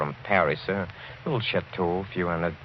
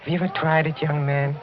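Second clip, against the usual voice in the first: jolly boast; 5 semitones higher than usual. Acted. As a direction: play the genial eccentric host. Host boasts of musical glasses.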